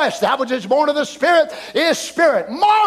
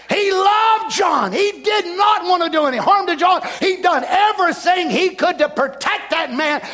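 preaching; 3 semitones higher than usual. Acted. Preaching at full force.

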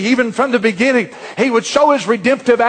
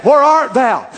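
mock holler.

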